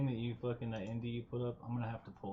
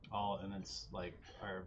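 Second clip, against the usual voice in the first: ordinary talk, nothing marked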